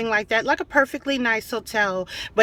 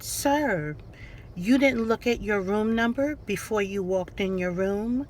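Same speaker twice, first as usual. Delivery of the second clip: softer, level, unbothered reply; monotone professional voice; 2 semitones lower, 6 dB quieter than usual. Retold or imitated. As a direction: flatly point out his mistake. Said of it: "monotone, professional voice".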